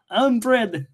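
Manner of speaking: put-on amateur Russian accent. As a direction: introduce yourself in a mock Russian accent. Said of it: "I am doing it in Russian now".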